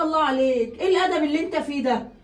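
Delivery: loud, hurt scolding of her daughter; mother loudly rebuking her daughter; loud reproach. Acted. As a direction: raise the voice in outrage.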